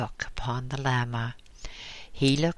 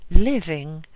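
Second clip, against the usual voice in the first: louder repeat; 4 semitones higher, 11 dB louder than usual. Acted. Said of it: "she answered abruptly".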